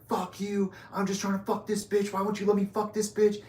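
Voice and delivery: high, strained mock yell of an angry drunk guy; caricatured high-pitched rant; imitating raging roommate. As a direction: squeal it out like a furious naked idiot. Naked roommate raging in hallway.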